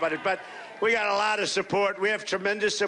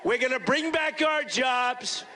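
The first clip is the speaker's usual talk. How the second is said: stirring the crowd, shouted slogans; rally shout. Real, not acted. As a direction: belt the promises to the back of the arena. Rally promises to a cheering crowd.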